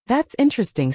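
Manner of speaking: thats high and lifting, curious; curious and engaged; curious rising pitch. Shown as a demonstration. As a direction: sound genuinely curious on thats. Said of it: "said with a rising higher pitch".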